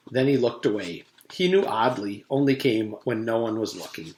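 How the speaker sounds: steady read-aloud storytelling voice; story narration. A narrator's reading. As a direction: read it like a chapter book. Reads the chapter aloud.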